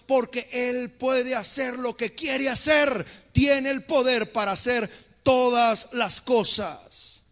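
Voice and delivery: loud, slow preaching crescendo; preaching at full force. Real, not acted. Preacher to congregation, shouting slowly and strongly. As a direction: proclaim God's power, building to a shout.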